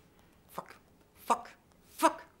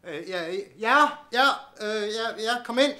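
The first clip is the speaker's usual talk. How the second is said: flustered startled answer; 7 semitones higher, 13 dB louder than usual. Acted. Startled man answers a caller.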